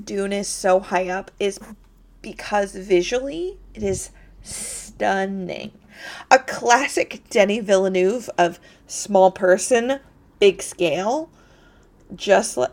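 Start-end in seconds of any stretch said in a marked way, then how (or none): 6.3-12.7 talking through hiccups; hiccuping. Real, not acted. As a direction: hiccups breaking the words. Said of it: "sorry, I've got the hiccups".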